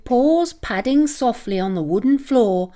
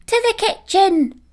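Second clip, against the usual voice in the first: declaring puppy; 10 semitones higher than usual. A narrator's reading. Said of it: "Peanuts declared".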